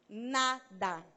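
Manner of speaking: NADA split slowly into two syllables, NA... DA; emphatic repeat. Real, not acted. Speaker admits to congregation she does nothing, NADA broken in two for emphasis. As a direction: land on NADA, pausing between syllables.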